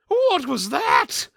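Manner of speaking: high, slow alarmed cry; jolted by a flash in the water; startled shout. Acted.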